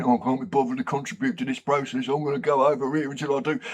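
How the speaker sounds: fast, bored cockney mumble; can't-be-bothered cockney dog; knackered cockney. Retold or imitated. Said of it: "knackered and cockney".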